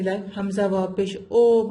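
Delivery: Hamza واپش او with a long majhool o; wrong majhool reading. Shown as a demonstration. Teacher demonstrates the wrong majhool vowel in او. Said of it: "مجہول نہیں پڑھیں گے".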